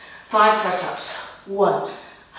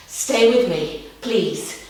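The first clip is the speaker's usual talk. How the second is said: begging; much slower than usual. Real, not acted. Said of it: "She begged".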